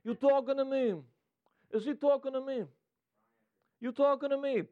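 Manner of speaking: high-pitched New York tough-guy impression; playful mock New York wiseguy; Robert De Niro. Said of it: "You know Robert De Niro".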